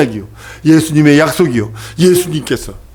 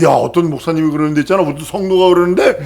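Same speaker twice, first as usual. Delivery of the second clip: usual speaking voice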